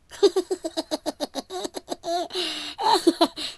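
high shrill cackle from the dark; eerie high laugh. Acted. A hidden voice laughs eerily at the lost apprentice. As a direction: laugh like an unseen spirit in the woods.

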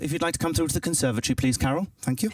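quick, polite Englishman; a brisk, formal invitation hiding love; reserved Englishman. Acted. Englishman invites Carol to the conservatory, politely reserved. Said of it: "hear an Englishman confessing his love".

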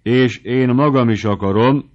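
firm and loud, rolling the r; hard, rolled r. A narrator's reading. The prefect insists to the editor, firm and loud. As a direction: lay down the law, crisp and loud. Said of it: "ropogtatta meg az erbetűt a főispán keményen".

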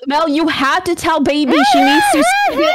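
high, urgent plea; desperate to be heard; frantic pleading. Real, not acted. Pleading with friend.

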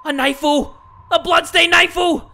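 high, loud, with a silly knifeu ending; horrified girl voice. Acted. Gamer as the girl finding a bloody knife, high and loud. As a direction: gasp out knifeu like a shocked child. Reads the girl's horror line.

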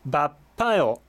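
バッパよ said as Korean with a tense p; Korean word demo. Shown as a demonstration. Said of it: "忙しいですっていう意味が". (韓国語の発音で)

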